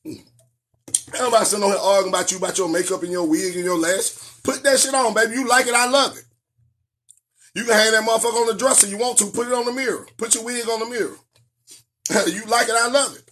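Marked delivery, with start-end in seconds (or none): 4.4-13.2 hyped encouragement. Real, not acted. Talking to women online, hyped-up encouragement. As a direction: cheer her on, pitch up.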